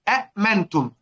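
"أأمنتم" with both hamzas sounded apart; two hamzas. Shown as a demonstration. Teacher showing the origin of the word, two separate hamzas. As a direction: stop crisply on the second hamza of "أأمنتم". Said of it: "همزتان".

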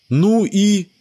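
put-on high boy's voice, prodding; a kid nudging a friend, high; curious child. A narrator's reading. Bruce prods Sebastian, high child voice.

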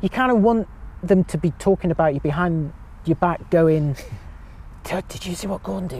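ordinary talk

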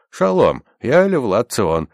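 high, loud hail, slowing on the name; shouted greeting. A narrator's reading. Armed rescuer announces himself to captives, shouting. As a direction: call out a bold introduction. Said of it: "и крикнул".

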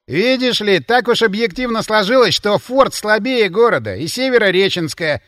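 host lecturing sarcastically; sarcastic smile. Acted. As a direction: explain with a smug smile. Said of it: "саркастически улыбнулся Демин".

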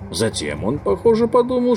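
usual speaking voice

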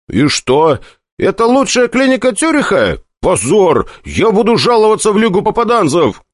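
high indignant complaint; outraged and shrill, demanding; indignant outrage. A narrator's reading.

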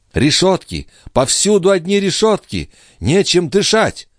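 high, loud, desperate cries; high, loud, distraught girl; frantic outburst. Acted. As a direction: gasp out her panic at the bars. Lorenza suffocating despair.

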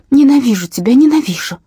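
furious hate outburst; hateful cry. A narrator's reading. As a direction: hurl the words at him. Child screaming at father.

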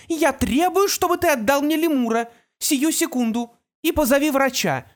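high, loud furious demand; angry demand. A narrator's reading. Mother shouts at her son for the lemur, furious.

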